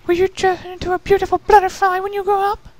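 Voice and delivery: high, wondering question; eager filly. A narrator's reading. Rarity asking Pupa about butterflies, eager. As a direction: ask it wide-eyed and thrilled.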